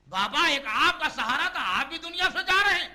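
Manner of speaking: loud, high cry of grief; anguished plea. Acted. Daughter to her dying father, loud anguished plea.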